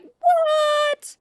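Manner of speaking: hammed-up high, loud squeal of disbelief; shocked shriek. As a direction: shriek it like a heartbroken fangirl, overdone. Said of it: "And she was like".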